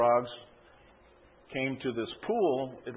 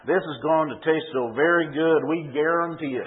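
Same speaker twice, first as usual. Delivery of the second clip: put-on laughing Louisiana Cajun accent; loud, cheery Cajun accent chant; 3 semitones higher, 4 dB louder than usual. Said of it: "in a Louisiana Cajun accent".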